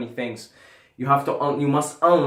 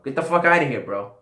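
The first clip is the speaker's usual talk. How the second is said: higher, louder mock get-out yell; 4 semitones higher, 4 dB louder, faster than usual. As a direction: shout it in jest at the viewers. Joking dismissal of non-subscribers.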